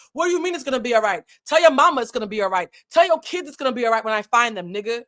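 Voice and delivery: mock menace. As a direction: throw it back in his face, quick. Suge threatens a rapper during shootout.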